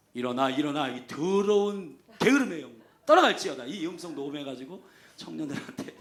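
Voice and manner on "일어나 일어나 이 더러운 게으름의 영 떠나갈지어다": rebuking wake-up call. Retold or imitated. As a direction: cast out the lazy spirit. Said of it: "제가 그랬어요". (게으름의 영을 꾸짖는 힘찬 호령)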